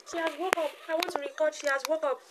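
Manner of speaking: high-pitched mock lament; playful high-pitched whine; mock whining. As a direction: complain in a high, put-upon voice. Mock lament that baby woke.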